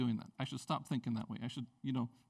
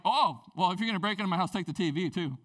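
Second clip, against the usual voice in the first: mock generous; 4 dB louder than usual. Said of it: "the new you is like".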